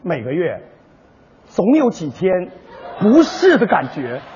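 gentle commercial voiceover; mock ad read. Partner reads a gentle sanitary-pad commercial. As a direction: soothe like a product ad. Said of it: "电视康尔乐多好听啊".

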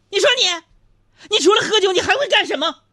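high, loud scolding wife; angry wife. Retold or imitated. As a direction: scold him shrilly at full volume.

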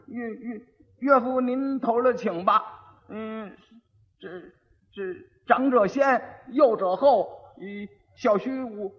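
halting repeat, stalling and restarting on 我; a dim groom struggling to recite a learned line; stammering idiot. Acted. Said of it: "说，说试试".

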